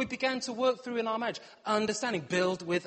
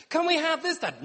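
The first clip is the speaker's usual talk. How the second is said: put-on high, louder pleading children; mock children asking; 8 semitones higher, 5 dB louder than usual. Children asking Dad for a treat, high pleading voice. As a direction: beg like eager kids. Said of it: "my children".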